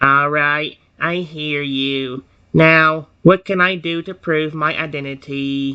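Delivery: slow, robotic, machine-like voice. Voicing the robot in a story, robotic Rexy voice. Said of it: "I'll do like a robotic Rexy voice".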